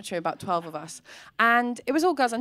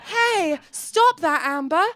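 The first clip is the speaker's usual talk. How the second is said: higher, prim little telling-off; mock goody-goody scold; 4 semitones higher, slower than usual. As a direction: scold like a model pupil. Voicing perfect girl scolding.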